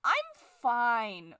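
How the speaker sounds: mock denial. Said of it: "I'm not mad".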